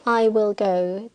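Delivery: "will" stressed, said slowly and firmly. Shown as a demonstration. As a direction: lean on "will" to make it emphatic. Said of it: "the speaker usually stresses the verb will".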